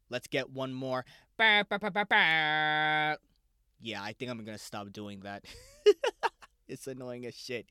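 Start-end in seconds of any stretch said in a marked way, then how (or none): 1.4-3.2 mock horn fanfare. Podcast host heralding the shout-out, mock horn fanfare. 5.8-6.4 short, high, loud laugh. Real, not acted. Host amused at his own silly noise, laugh.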